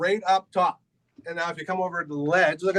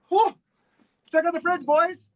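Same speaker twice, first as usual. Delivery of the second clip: excited; 10 semitones higher, slower than usual. Real, not acted. Excited tour host.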